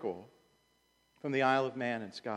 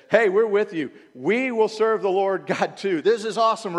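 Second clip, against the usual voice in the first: fired-up crowd; 7 semitones higher, 13 dB louder than usual. Retold or imitated.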